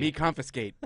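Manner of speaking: broken-English movie stereotype voice; lightly put-on stereotyped Native American voice; hint of old-western caricature; mock Native American. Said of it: "You sound like a Native American Indian".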